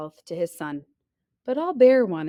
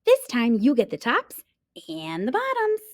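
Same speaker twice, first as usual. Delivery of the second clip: calling out; 6 semitones higher than usual. Acted. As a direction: shout it across the field. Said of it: "Hare called out".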